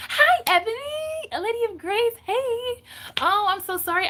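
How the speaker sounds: high, bright-voiced hello to a friend; excited greeting. Real, not acted. Streamer greeting viewer Ebony, excited and loud. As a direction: greet her like a long-lost friend.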